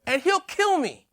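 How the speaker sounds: nervous Obadiah. Obadiah imagines facing Ahab alone, half-laughing and meek. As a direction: sheepishly squeak out the name. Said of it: "And I'll be standing there like".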